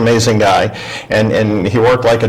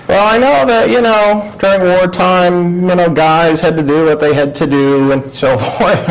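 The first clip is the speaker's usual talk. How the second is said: dad voiced much higher, halting and awkward; father's voice; 7 semitones higher than usual. Son imitating his Navy father accepting him, in a high, awkward voice. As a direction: put on Dad fumbling for the words. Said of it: "And he goes".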